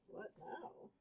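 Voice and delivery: very high, breathy squeak; tiny high-pitched panicked voice; panicked kid. A narrator's reading.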